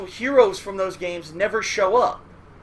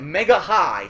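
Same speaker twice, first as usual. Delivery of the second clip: Mega Man voice; 4 dB louder, slower than usual. Retold or imitated. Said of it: "why would you think about that".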